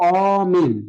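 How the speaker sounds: অমিল with an open ɔ; open o sound. Shown as a demonstration. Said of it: "যেমন যদি বলি".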